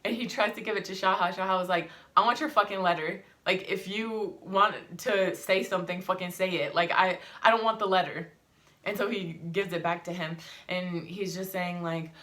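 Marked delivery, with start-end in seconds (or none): 2.2-8.3 angry refusal. Retold or imitated. Husband refusing the letter angrily.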